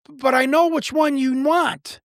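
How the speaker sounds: put-on slow, high voice of a frail old lady; frail old woman. Telling a caller looking for her husband, a frail old lady's voice. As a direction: lift the pitch and slow it down, as if calling out from a sickbed. Dying widow calling back.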